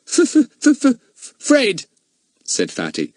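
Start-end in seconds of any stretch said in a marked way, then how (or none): 0.1-1.8 high, loud pretend stammer. A narrator's reading. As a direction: stammer as if scared. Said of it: "he stammered".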